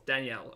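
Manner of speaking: Danielle in two beats, dan-YELL; no middle vowel in Danielle; two syllables. Shown as a demonstration. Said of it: "Two syllables".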